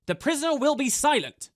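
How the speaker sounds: high, loud snapping little Asura; high-pitched creature voice snapping an order. A narrator's reading. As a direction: bark the order in a tiny shrill-free high voice. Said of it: "snapped Cranks".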